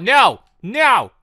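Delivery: sharp, loud high protest; loud scolding no at a stubborn villager. Real, not acted. Player telling Ramon no, loud and exasperated.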